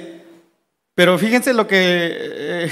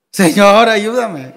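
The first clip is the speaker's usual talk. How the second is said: frightened plea; 6 dB louder, slower than usual. Acted. Disciples' cry imagined by preacher.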